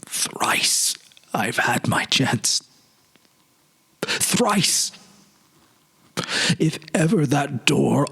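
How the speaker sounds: a touch of sorrow, slow, whispered in places; sorrowful confession. Acted. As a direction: let regret weigh on each vow. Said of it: "with an enormous sorrow in his voice".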